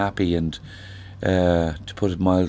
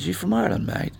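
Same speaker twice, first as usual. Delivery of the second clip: higher-pitched Australian surfer's greeting; Australian lad; 10 semitones higher, 6 dB quieter, faster than usual. Retold or imitated. Surfer lad in the water asking a stranger, imitated high voice. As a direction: put on a lad's high "mate" voice. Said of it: "I met this lad".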